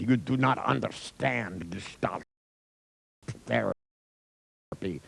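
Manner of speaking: slow, weighty retold reprimand; deliberate, word-by-word put-down; stern rebuke. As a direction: imitate a therapist spelling it out very slowly. Therapist rebukes the laughing editor.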